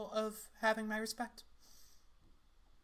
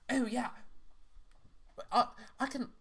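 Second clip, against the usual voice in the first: put-on British accent; 2 semitones higher, faster than usual. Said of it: "I'm doing way too British".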